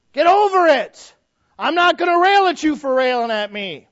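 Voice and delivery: loud, high preaching shout; emphatic exhortation. Real, not acted. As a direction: holler it at the congregation. Preacher exhorting against petty fights.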